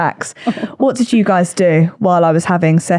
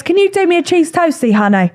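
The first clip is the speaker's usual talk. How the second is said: light camp impression; 8 semitones higher than usual. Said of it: "So he goes".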